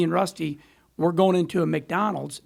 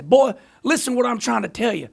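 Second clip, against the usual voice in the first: higher-pitched imitation of a southern accent; 5 semitones higher, 3 dB louder than usual. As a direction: lightly put on a southern accent to lecture. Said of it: "in that southern accent".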